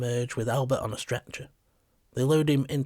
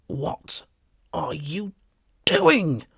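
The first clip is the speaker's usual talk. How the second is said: builds from a breath to a high shout; indignant shout at the police; 3 semitones higher, 5 dB louder, much slower than usual. A narrator's reading. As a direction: start hushed, then shout the last word high. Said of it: "I shout at them".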